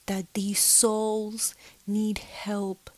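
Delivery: calm whispered reassurance. Retold or imitated. Speaking to the spirit, slow calm whisper. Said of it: "And I'm like".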